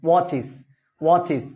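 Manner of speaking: ওয়াচিস said as wo-chis, ending in a clear -is; pronunciation demo. Shown as a demonstration. Teacher models ওয়াচিস for students, clear -is ending. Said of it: "উচ্চারণটা কি হবে?".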